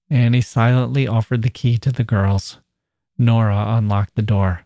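measured, even read-aloud narration; story narration. A narrator's reading. Narrator tells of the girl confronting him, measured narration.

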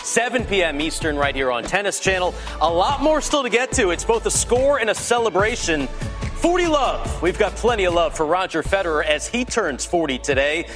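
punchy promo read over music; tabloid tv host. Acted. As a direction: hype up the next segment like a TV host. Promo tease over show music.

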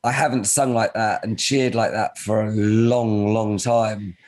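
forced strained hoarse voice. Real, not acted. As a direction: voice almost gone, forcing it out. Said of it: "I'm forcing my voice out because it's gone".

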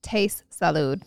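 low, slow, drawn-out product name; slow reveal. Acted. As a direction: reveal the brand name slowly, like a secret. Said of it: "I have two words for you".

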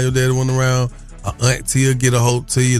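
normal talking voice

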